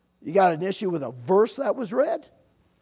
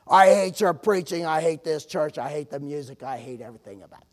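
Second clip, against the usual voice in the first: retold angry outburst; 3 dB louder than usual. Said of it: "he explodes on me".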